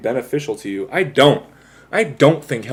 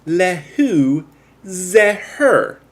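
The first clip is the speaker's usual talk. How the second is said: high mock-French quote retry; hammed-up French accent; 7 semitones higher, 3 dB louder, much slower than usual. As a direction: try the French line once more. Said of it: "That's still not it".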